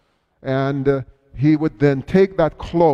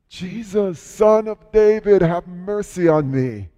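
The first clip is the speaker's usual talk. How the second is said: mild mock cry, raised pitch; 4 semitones higher than usual. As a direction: call out for mercy, swelling on the middle words. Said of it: "he started crying out".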